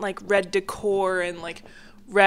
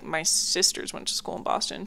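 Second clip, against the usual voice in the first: whispered quote; 3 semitones lower, 7 dB quieter than usual. Retold or imitated. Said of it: "I was like".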